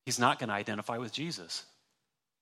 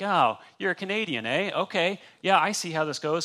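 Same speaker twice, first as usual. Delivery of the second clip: put-on a light, playful Canadian accent with a raised pitch; mock Canadian accent; 5 semitones higher, 4 dB louder than usual. Preacher imitating a Canadian to show accents give you away. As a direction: tease the way Canadians talk, eh. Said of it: "They talk funny".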